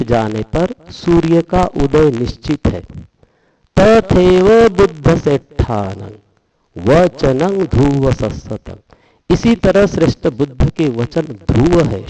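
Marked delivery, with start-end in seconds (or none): 3.8-8.7 slow, measured verse reading; Pali recitation. Shown as a demonstration. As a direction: intone each Pali word deliberately.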